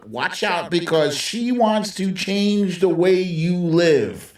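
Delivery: a hint of a TV alarmist sounding the warning; mock bullhorn warning. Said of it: "That was a bullhorn saying".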